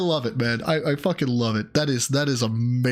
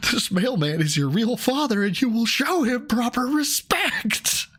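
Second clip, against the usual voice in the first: stern parent voice; 9 semitones higher than usual. Pretend. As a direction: lay down the law, hammed up. Voicing a parent's stern decree.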